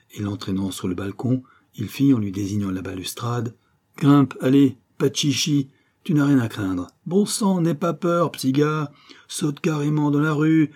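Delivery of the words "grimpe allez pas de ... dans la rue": higher, louder, pressing him to jump; a street kid shouting a scared boy off a balcony, louder and higher; urgent urging. Acted. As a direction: hurry him over the railing.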